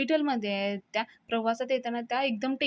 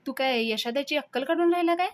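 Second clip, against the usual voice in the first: higher and a bit louder, challenging; furious retort; 4 semitones higher, 3 dB louder than usual. Acted. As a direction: throw the question back in anger. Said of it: "फारच चिडतो आणि म्हणतो". (खूप चिडून, आव्हान देत)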